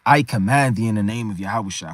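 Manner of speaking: low-pitched archaic recital; old-English recitation. Shown as a demonstration. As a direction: intone it low like an ancient text. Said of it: "can't read this like this is old English".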